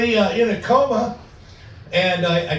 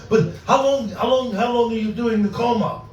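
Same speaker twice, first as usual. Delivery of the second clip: put-on Russian accent; 5 semitones higher than usual. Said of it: "my Russian friend".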